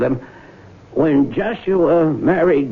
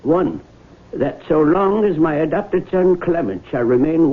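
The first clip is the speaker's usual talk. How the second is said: formal will reading; 2 semitones higher than usual. Acted. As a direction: read it out like a solemn document. Lawyer reads the will aloud.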